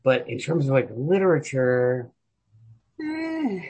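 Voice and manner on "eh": dismissive eh. Real, not acted. Shrugging off Poe.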